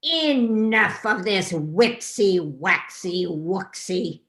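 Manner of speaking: loud, dismissive royal voice; scornful king. Acted. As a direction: wave it away with scorn.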